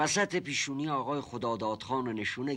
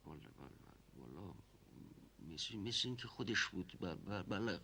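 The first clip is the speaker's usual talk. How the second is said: nervous mumble; 5 semitones lower, 13 dB quieter than usual. Acted. Nervous witness mumbles answer.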